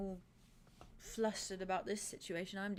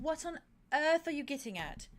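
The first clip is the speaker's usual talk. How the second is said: higher and louder, exasperated; an exasperated, raised question; exasperated outburst; 6 semitones higher, 5 dB louder than usual. Retold or imitated. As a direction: demand it, losing patience. Pressing Arte, exasperated.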